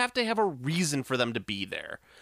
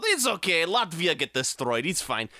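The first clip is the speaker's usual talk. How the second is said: put-on Eastern European accent. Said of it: "doing an Eastern European accent".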